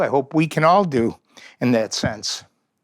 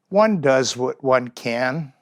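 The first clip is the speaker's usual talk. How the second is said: the little bird answering the raptor, slow and calm; 2 semitones lower, slower than usual. Acted. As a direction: answer simply and calmly. Bird's calm reply.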